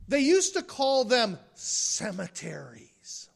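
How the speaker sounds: whispered mock reverence; hushed aside. Preacher whispering to the congregation, hushed. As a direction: breathe it like a polite secret. Mocking euphemism in sermon.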